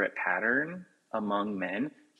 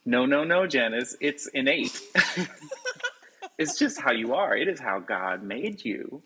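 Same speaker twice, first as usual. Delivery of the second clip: mock preachy author; 3 semitones higher than usual. Mocking the author's view.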